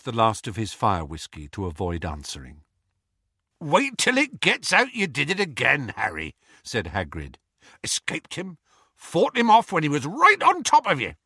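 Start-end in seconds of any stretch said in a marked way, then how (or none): 3.6-11.1 high, loud, far-off giant voice; Hagrid voice. Acted. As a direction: boom it out proudly. Hagrid's booming admiring voice.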